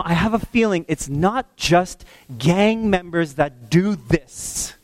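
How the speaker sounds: usual speaking voice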